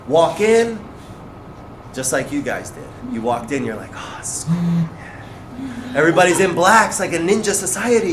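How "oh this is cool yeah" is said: breathy whisper of wonder; hushed awe. Retold or imitated. Newcomer walking into the school, whispered awe. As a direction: whisper it as if taking in the room.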